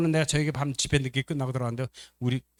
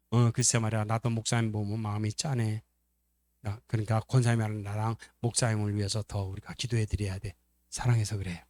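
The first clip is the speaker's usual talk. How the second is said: lower, softer acted agreement; tender sympathy; 4 semitones lower, 4 dB quieter than usual. Church member agrees that the pastor is pitiable, tender. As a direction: quietly share the concern.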